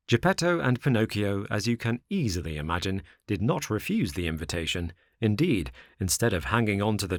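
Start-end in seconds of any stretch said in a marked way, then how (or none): none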